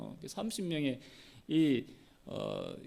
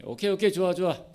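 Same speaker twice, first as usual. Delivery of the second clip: quick-fire, louder acceptance; acting out keen agreement; eager agreement; 3 semitones higher, 6 dB louder, faster than usual. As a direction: jump at the bet, voice up. Challengers eagerly accept the bet.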